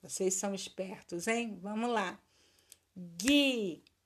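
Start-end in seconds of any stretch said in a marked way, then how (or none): 3.0-3.9 "Guisado" as gui, sa, do with long gaps; syllable by syllable. Shown as a demonstration. Teacher having pupils count syllables, slowly separating them. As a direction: stretch each of the three syllables. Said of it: "Separa as sílabas".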